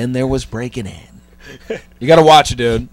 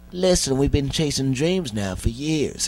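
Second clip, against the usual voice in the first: imitating teary actor; 4 dB quieter than usual. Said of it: "And he's, like, already crying".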